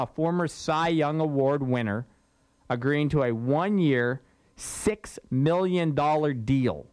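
six million dollar deal stretched out slowly; pointed emphasis. Shown as a demonstration. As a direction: repeat the headline, dwelling on the money. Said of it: "Why I said it".

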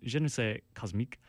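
bad anglophone French accent, self-mocking; a lightly put-on, hammy French accent; terrible French accent. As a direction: say the French title in a clumsy English-speaker's French accent. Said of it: "you're about to hear my terrible French accent".

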